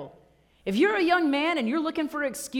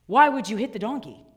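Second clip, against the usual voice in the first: put-on upset kids; 5 dB louder than usual. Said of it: "the preschoolers become very upset".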